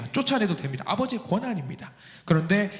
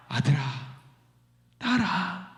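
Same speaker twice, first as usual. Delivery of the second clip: kind voice; slower than usual. Acted. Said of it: "세상 인자한 목소리로".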